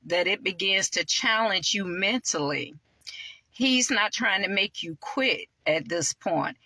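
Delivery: measured reading of a devotional passage; deliberate, preacherly read-aloud. Real, not acted. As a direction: read your own inspirational writing to listeners. Reads own book aloud.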